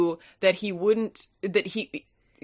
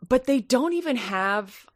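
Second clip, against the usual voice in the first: whisper; 5 semitones higher than usual. Real, not acted. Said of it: "whispered aside".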